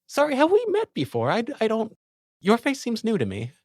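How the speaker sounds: high, bright-pitched noble officer, pleased; lieutenant character voice. Acted. The lieutenant to the guard, high and gracious.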